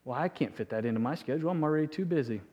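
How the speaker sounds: fast, soft brushing-off excuse; quick excuses. Retold or imitated. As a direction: rattle off a busy excuse. Mimicking excuses to God.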